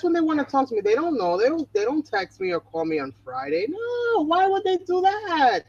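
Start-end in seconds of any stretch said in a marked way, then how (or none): 3.7-5.6 sarcastic. Real, not acted. Mocking friends who call too late.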